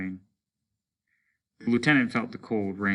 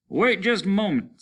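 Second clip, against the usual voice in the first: much higher, louder command; lieutenant halting; 11 semitones higher, 5 dB louder than usual. Acted. Lieutenant stops his men, high urgent command. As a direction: stop the men short. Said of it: "said the lieutenant".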